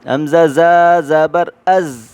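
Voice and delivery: "از" with the teeth together, buzzing z; z sound. Shown as a demonstration. Teacher showing the zay in "از". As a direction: close the teeth for "از". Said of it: "از کی آواز نکالیں".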